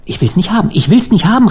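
high-pitched panicked protest; crying out. A narrator's reading. Harvey refusing the dead man's knife, crying out. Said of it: "rief Harvey".

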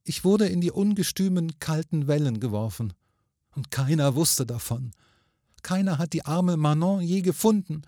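high, plaintive ghost lady; lamenting ghost woman. A narrator's reading. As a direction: lament your lonely death as a spirit. Ghost woman laments her death.

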